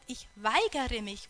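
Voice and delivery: angry refusal. Retold or imitated. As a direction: bite each word out in anger. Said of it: "und schreit und sein Blut kochte".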